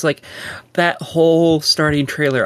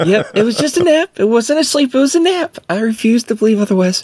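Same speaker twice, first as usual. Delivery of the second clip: insistent; 8 semitones higher than usual. Real, not acted. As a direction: insist it was only a nap. Insisting it was a nap.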